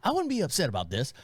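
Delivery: a mild take on his cadence, fast; neighbor's cadence. Retold or imitated. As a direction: copy his rhythm of talking. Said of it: "cadence as far as him talking".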